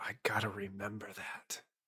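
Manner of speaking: hushed whisper under the breath. Playing a character who just saw a bookshelf close behind: whispering to oneself. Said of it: "I whisper to myself".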